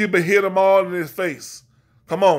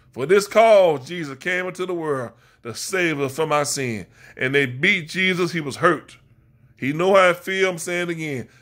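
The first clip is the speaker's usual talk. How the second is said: rhythmic Sunday sermon cadence; preaching. Real, not acted. Preacher calling out his congregation, in full sermon rhythm. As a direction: preach it like a pulpit call-and-response.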